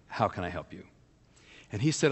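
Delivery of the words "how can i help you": kindly matter-of-fact. Retold or imitated. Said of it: "I said to him kindly, but just matter-of-factly".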